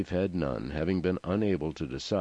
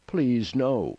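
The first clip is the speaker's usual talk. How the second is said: higher, louder begging; narrated cry of protest; desperate plea; 6 semitones higher, 5 dB louder than usual. A narrator's reading. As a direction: plead urgently against it. Mother begs not to be abandoned.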